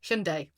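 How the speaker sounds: "Hyundai" repeated softly as SHUN-day; Korean pronunciation. Shown as a demonstration. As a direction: echo "Hyundai" in two syllables, ending in "day". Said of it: "The Korean pronunciation is".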